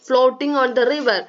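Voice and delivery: reading the poem very slowly, word by word. Acted. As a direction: read each line slowly for young pupils. Reads clue slowly.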